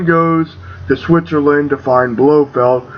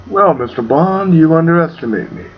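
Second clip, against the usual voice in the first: menacing villain. Retold or imitated. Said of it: "all the menace to him".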